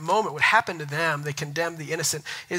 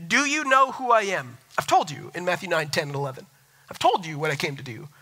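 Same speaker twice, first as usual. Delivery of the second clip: higher-pitched, insistent questioning; indignant challenge; 4 semitones higher than usual. Acted. Jesus confronting the Pharisees over their law, indignant challenge. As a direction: press the critics with emphatic, raised questions.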